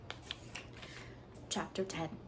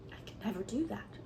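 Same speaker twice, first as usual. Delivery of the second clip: determined and dark; 2 semitones higher, 6 dB quieter than usual. Acted. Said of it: "said Anne determinedly and darkly".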